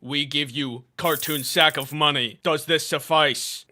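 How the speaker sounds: slow, broken-English business robot; a sponsor bargaining in stilted phrases; stiff corporate voice. Acted. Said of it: "None of that sounded real".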